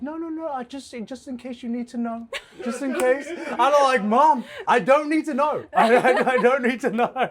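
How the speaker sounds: laughing exchange with mom. Retold or imitated.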